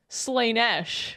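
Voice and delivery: Slaanesh with a long AY in the first syllable; spelling pronunciation. Shown as a demonstration. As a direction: say Slaanesh as "SLAY-nesh". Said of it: "they do spell it with two A's".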